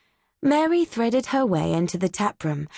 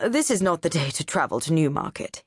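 lightly lower, pompous pronouncement; decreeing don; 3 semitones lower than usual. Acted. Doctor Nichols decreeing to Mary, lightly voiced. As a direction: lay it down as law. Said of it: "he decreed".

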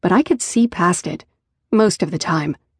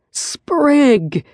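mild, higher bellow of a name; 7 semitones higher than usual. Acted. Riker calling out to Sprig from the bed, a mild mock bellow. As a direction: call him out sharply, lightly acted. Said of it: "Riker bellowed from the bed".

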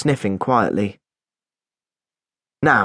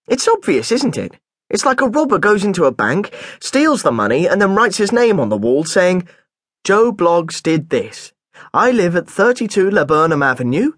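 put-on a touch of a boy's earnest voice, higher; schoolboy rattling off a silly example; boy explaining himself to the headmaster, earnestly; lightly voiced boy; 4 semitones higher than usual. Boy narrator voices his younger self.

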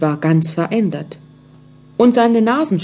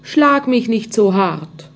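slow, gentle plea, a touch raised; pleading little voice; 3 semitones higher than usual. Acted. The little voice in the wood pleading with the carpenter, mildly pleading. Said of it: "das flehentlich sagte".

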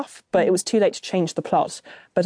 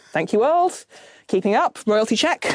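mock gratitude; 4 semitones higher than usual. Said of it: "I was like".

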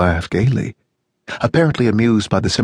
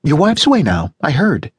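gushing neighbour on the phone, much higher; Janice, cheerful American; 6 semitones higher than usual. A narrator's reading. Janice voiced in read story.

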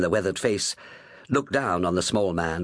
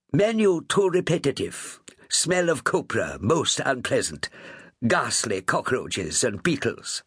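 mock posh English, high and slow; upper-class English accent; 6 semitones higher than usual. Captain mocking fussy passengers in upper-class English accent. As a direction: sniff like an English lady complaining. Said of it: "He affected an upper-class English accent".

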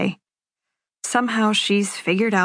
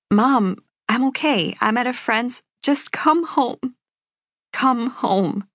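different-sounding mom; 5 semitones higher, slower than usual. A narrator's reading. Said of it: "the way she sounds now is different".

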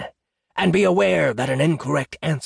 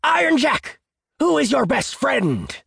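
booming jackal. A narrator's reading. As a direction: boom it out like a grand quizmaster. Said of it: "he boomed".

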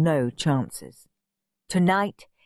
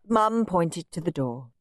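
ordinary delivery

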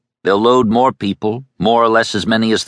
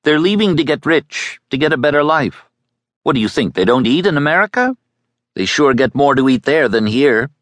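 annoyed; 8 semitones higher than usual. A narrator's reading. Boy losing patience with the girl's questions, annoyed and fast. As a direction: snap at her impatiently. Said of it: "He shifted suddenly, in annoyance".

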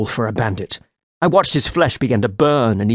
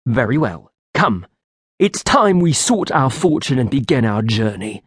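my best voice. Acted. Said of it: "I said with my best voice".

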